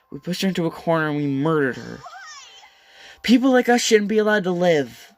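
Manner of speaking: crying, rising to a high loud cry; tearful outburst. Acted. Hina confessing to the class, tearful outburst. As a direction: let the guilt break out in tears.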